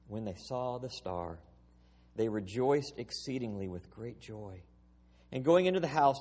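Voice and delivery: measured, solemn reading of the Gospel; formal Bible lesson read from the pulpit; scripture reading. Acted. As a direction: read it out to the congregation, unhurried. Reads scripture aloud.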